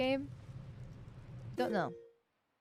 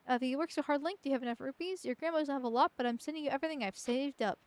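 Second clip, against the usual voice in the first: lightly voiced grandma letter; 3 semitones higher, faster than usual. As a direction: read it like a doting grandma. Reads grandma's letter aloud.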